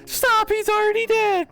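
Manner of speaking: high, slow, laughing protest. Real, not acted. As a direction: gasp it out through laughter. Laughing at dead opponent.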